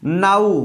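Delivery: नाउ said "naau" with an ow glide; नाउ ending in "aau" like cow; pronouncing now. Shown as a demonstration. Teacher models नाउ for the class. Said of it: "आउ आ रहा है".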